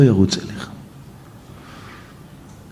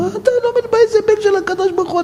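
impassioned cry; faster than usual. Acted. Preacher peaks in rebuke.

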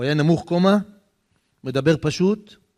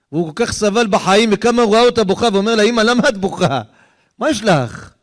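high, loud, urgent storytelling; impassioned retelling; 7 semitones higher, 5 dB louder than usual. Retold or imitated. Preacher voicing a son who sees his mother crying, impassioned. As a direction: cry out the son's question with feeling.

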